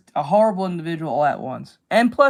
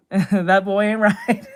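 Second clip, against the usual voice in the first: slow, lightly voiced Texan drawl; a hint of a worried dad, stretched out slowly; Hank Hill; slower than usual. Streamer quoting the cartoon dad's catchphrase, slow and light. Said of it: "Hank Hill catchphrase".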